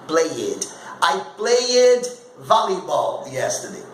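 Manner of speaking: "played" wrongly in two syllables, play-ed; mispronounced ED ending. Teacher mimicking learners' common error, extra syllable. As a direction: say "played" as play-ED, with an added vowel. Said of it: "Não é played".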